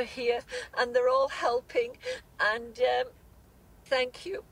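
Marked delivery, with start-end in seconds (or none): 2.4-4.4 choked up, fighting back tears; real crying under the gratitude; tearful thanks. Real, not acted. Grieving mother thanks the Australian viewers, tearfully. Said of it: "Sorry, I'm a bit emotional again".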